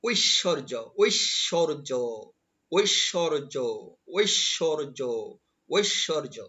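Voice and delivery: ঐশ্বর্য as "oish-shor-jo", syllables held apart; pronunciation demo. Shown as a demonstration. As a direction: sound out ঐশ্বর্য for repeating along. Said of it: "এভাবেই কিন্তু আমার সাথে".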